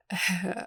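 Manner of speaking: brief little chuckle; a short laugh before answering; small awkward laugh. Acted. Visitor asked about growing taller, small awkward laugh. Visitor reacts to height question.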